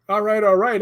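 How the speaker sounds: high, playful echo of the famous catchphrase; McConaughey drawl. Retold or imitated. Teasing the ghost Calvin, mock McConaughey catchphrase. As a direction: copy the movie star's laid-back line. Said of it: "And I went".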